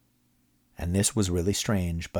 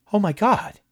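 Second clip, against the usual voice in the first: much higher, stunned Oh my God; shocked gasp; 7 dB louder than usual. A narrator's reading. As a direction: caught off guard by a monster. Moss sees the creature.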